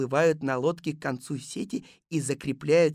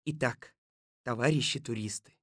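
mildly warm, unhurried address; 2 semitones lower than usual. Acted. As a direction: soften slightly to address the group. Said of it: "сказал Колобок тёплым голосом". (тёплым голосом)

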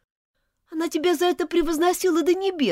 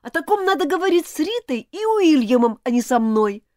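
high, loud outraged accusation; angry and contemptuous; 11 semitones higher, 5 dB louder than usual. Acted. Elizabeth accuses Martin of theft, high and furious. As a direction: hurl it at him, betrayed and furious. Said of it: "сама ещё больше разозлилась".

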